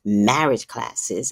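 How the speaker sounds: drawn out, half-speed quote; pointed repetition. Retold or imitated. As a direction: repeat it slowly, imitating her. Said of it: "she repeated and she's like".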